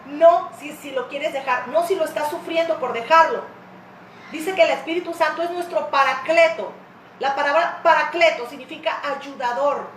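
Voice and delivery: usual speaking voice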